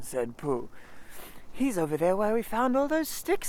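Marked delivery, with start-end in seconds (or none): 1.5-3.5 high, small piglet voice. Acted. Piglet telling Pooh where Christopher Robin is, high and small. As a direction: sound tiny and timid.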